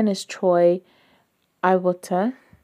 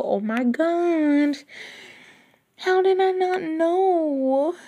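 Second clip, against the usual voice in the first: amazed; 9 semitones higher, slower than usual. Real, not acted. Learning of another book.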